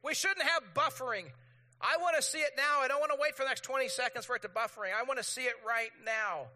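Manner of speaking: high, loud, whiny-impatient rant; acted-out indignation at a stalled video; impatient outrage. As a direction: demand it now, hammed up. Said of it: "And you're like".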